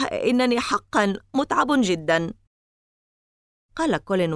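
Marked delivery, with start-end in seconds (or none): 0.1-2.3 tired, higher, through a yawn; half-yawned, worn-out words; sleepy yawning. Acted. Tired boy yawning to his friends, higher voice. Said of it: "قلت وأنا أتثاءب".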